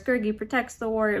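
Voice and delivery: lightly voiced Smeagol-like creature; a hint of a loyal little creature; Gurgi. Reviewer showing how the creature talks, lightly imitated. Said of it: "he talks like that".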